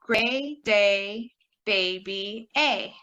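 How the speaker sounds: put-on slow "gray day, baby", then "A" alone; deliberate model, isolating "A" last; matching vowel drill. Shown as a demonstration. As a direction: link the long "A" through "gray day, baby". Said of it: "that's going to be".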